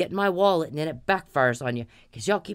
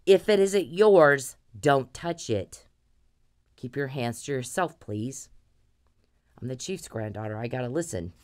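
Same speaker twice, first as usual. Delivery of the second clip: stern grandmother; 3 semitones lower than usual. Retold or imitated. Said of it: "my grandmother got me, she was mad".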